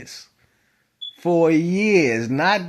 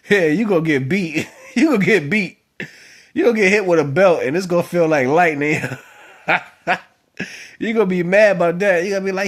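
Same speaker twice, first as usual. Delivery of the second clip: loud, amused warning through laughs; laughing warning; 4 semitones higher, 4 dB louder than usual. Real, not acted. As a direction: tease them loudly, half laughing. Warning about grandfather's belt.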